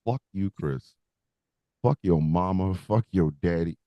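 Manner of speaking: low, muttered curse from the shorts; voiced dirty shorts. The shorts cursing their owner, low and quiet.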